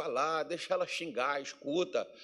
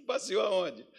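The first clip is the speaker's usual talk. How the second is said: laughing joke; 3 dB quieter, slower than usual. Retold or imitated. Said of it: "lá em Minas o pessoal fala".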